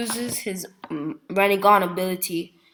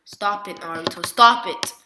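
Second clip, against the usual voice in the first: mock crying plea; 7 dB louder than usual.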